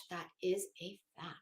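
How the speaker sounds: whispered aside. Real, not acted. Streamer confiding to chat, whispered. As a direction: breathe it like a secret. Aside after karma line.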